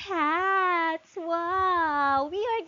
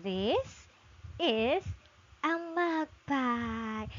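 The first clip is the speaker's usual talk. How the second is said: slow model reread; 4 dB quieter, slower than usual. Shown as a demonstration. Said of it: "let's read again".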